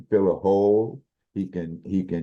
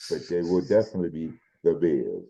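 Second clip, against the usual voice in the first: booming sports announcer. Acted. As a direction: announce it like game day. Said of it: "I don't know what that voice was".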